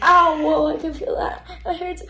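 loud sudden ow, then breathy complaint; startled by the sting; pained yelp. Real, not acted. Patient feels second needle.

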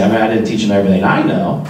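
mock punchline from a proud dad; punchline delivery. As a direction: land dad's joke with a grin. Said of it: "he'd say".

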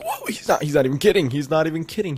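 high-pitched incredulous whoa; stunned fans, playfully exaggerated; mock amazed viewers. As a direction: imitate astonished viewers, voice jumping up. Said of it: "And you're like".

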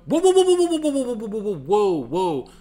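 startled, calling the doctor off; panicked stop, stop, stop; alarmed whoas. Retold or imitated. Alarmed at nurse stepping back.

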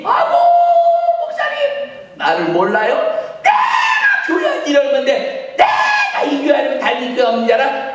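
high, loud indignant shout; indignant protest. Retold or imitated. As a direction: shout back offended. Drunk-accused woman protesting to pastor. (술 취했다는 목사에게 높고 크게 항의하는 여자)

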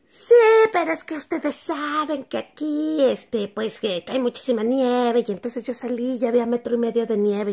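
lightly voiced neighbor excuse; imitating neighbor. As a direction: play the neighbor justifying herself.

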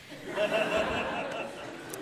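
high, airy chuckle; amused laugh. Real, not acted. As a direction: laugh at the memory. Laughing about first joint.

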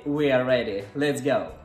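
ordinary talk

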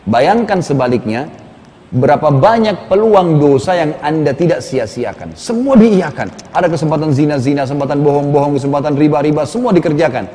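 preacher's urgent build; fervent preaching. Acted. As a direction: hammer each missed chance home. Listing sins with preaching force.

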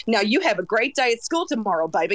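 lightly imitated Kentucky Southern accent. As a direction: imitate a kindly Kentucky send-off, amused. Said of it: "very specific Kentucky accent".

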